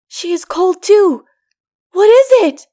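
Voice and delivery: put-on frightened child crying out; boy cries in wondering dismay. A narrator's reading. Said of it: "he cried".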